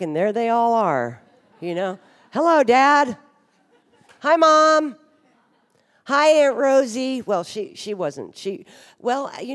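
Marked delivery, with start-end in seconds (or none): 2.3-7.2 bright, high sing-song hellos; chirpy greeting. Pretend. Addressing family looking back, high chirpy greeting. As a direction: greet each ghost like a cheery child. Greeting dead relatives in memory.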